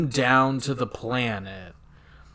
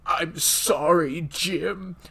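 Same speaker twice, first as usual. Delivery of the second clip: dying apology; 4 semitones higher, slower than usual. Retold or imitated. Acted dying apology to Kirk.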